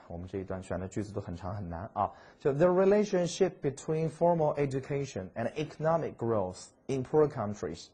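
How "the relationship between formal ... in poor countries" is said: slow, careful read of growth in poor countries; slowly. Shown as a demonstration. Teacher slows the English for students, very slow. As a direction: take it slowly, word by word. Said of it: "慢慢来".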